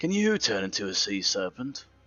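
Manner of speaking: mocking, sardonic, sarcastic, swooping tone. Voicing a smirking character asking Caldron a question: smirking sarcastic question. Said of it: "he smirks at Caldron".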